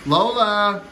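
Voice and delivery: high-pitched call to the dog. Real, not acted. Dad calls Lola to her bath, calling out high.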